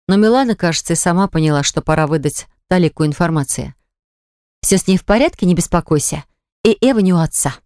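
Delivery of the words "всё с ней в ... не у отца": gently reassuring, lightly voiced; calm him down, mildly; soothing tone. Milana reassures worried Artur, gently soothing. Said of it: "сказала она успокаивающим тоном".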